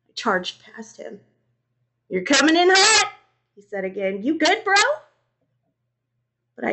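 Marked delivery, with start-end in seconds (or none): 2.1-3.1 high, loud exclamation; startled roommate. A narrator's reading. Roommate startled by his charge. 4.2-4.8 high, loud questioning rise; concerned roommate. A narrator's reading. Roommate checking on him.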